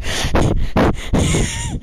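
short high-pitched burst of laughter. Real, not acted. Laughing after admitting the half Scottish mix-up, high laugh.

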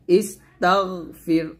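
তাগ slow, with a sustained gargled gh; thick ghain. Shown as a demonstration. Teacher correcting the echo, slow heavy gh in ইস তাগ ফির. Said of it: "গয়নটা মোটা করে উচ্চারণ করতে হবে".

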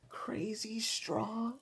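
soft, slow whispered plea; whispered request. Acted. D W asking grandma for a crazy straw in a whisper. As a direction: whisper it, milking the pity. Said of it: "asked D W".

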